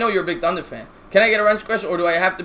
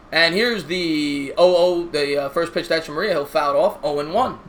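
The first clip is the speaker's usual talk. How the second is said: play-by-play announcer. Acted. Live play-by-play call.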